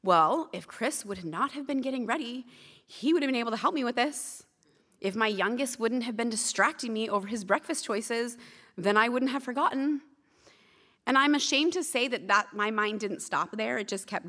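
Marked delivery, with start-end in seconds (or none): 0.0-10.0 replaying her own excuses, lightly hammed; blame-shifting inner rant. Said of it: "my mind immediately went into slander mode".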